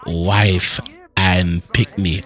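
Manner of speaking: "wife and Pickney" slow, patois style; patois wording. Shown as a demonstration. Asked to repeat the line, patois version. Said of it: "Pickney if I work better".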